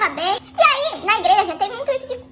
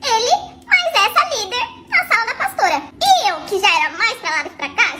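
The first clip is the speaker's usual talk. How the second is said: ordinary talk, nothing marked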